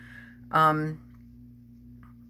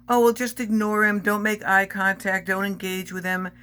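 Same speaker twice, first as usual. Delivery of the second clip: higher, louder mock of a breezy dismissal, slowing midway; mocking the manager; 5 semitones higher, 4 dB louder than usual. Mimicking the manager brushing off harassment, mock breezy. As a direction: parody her flippant advice.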